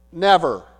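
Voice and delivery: firm, falling one-word denial; firm answer. Retold or imitated. Pastor ruling out all those feelings, firm. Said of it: "give a very firm answer".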